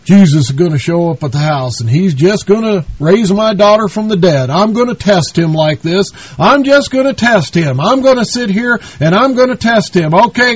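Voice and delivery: lightly hamming up a smug, passive believer; mock lazy believer. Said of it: "He didn't sit on his duff and just say".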